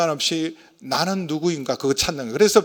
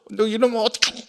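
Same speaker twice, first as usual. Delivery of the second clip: higher-pitched mock scolding; retold angry parent; 6 semitones higher than usual. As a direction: imitate a parent flaring up, without shouting. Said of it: "막 화를 벌컥벌컥 내고". (화내는 부모 흉내)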